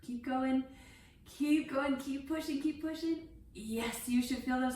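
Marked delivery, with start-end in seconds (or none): 0.1-3.3 coaching while forcing out the last breath; blowing out hard. Shown as a demonstration. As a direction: push the words out on an empty exhale. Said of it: "and blow out those candles".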